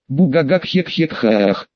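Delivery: slow mock evil cackle; hammed-up villain laugh, drawn out; villainous laugh. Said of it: "моё подобие на злодейский смех".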